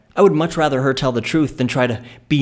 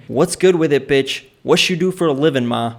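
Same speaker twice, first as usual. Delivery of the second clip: louder, swaggering street-style pickup line; casual come-on; 4 dB louder than usual. Retold or imitated. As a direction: toss it out as a cocky, casual come-on. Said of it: "Quite casually, I asked another woman".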